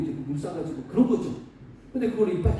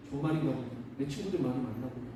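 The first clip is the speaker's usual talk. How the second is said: lower, softer wavering self-talk; 6 semitones lower, 6 dB quieter than usual. Acted. Son starting to believe his friends' words, wavering. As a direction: let doubt creep in, voice dropping. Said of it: "막 흔들리기도 하고".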